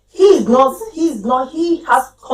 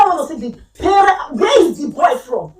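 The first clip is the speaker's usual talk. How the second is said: raised, higher insistence; mother demanding the head teacher bring the parents, raised and firm; 4 semitones higher than usual. Retold or imitated.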